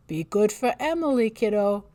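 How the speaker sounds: cheerful dad. Acted. Father saying goodbye.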